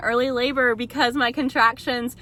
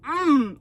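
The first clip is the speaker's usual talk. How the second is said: guttural groan; 4 semitones higher, 3 dB louder than usual. Retold or imitated. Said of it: "guttural, like, noises".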